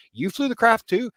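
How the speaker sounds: astonished. Retold or imitated. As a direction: another one, really?. Yet another witness claims flying.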